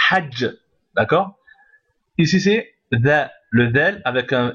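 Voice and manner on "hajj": hajj clipped to end on the doubled j, no ending; Arabic teacher demo of hajj without the -un ending; short form. Shown as a demonstration. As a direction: say hajj, stopping on the final consonant. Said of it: "C'est mieux de dire".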